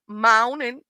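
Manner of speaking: "moaning" said like moaning, no R. Shown as a demonstration. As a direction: drop the R in "moaning". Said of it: "we say moaning".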